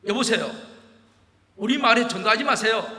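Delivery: put-on loud, brash objection from a young villager; defiant challenge. A young villager defiantly confronting the preacher, loud. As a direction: shout him down, cocky and indignant. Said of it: "다 그렇게 치고 나오는 거예요".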